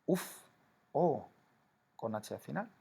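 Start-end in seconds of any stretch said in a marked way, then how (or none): 0.1-1.3 high weary Uf; a high exasperated Uf; demo interjection. Shown as a demonstration. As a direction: sigh out Uf as if relieved or tired. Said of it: "Por ejemplo".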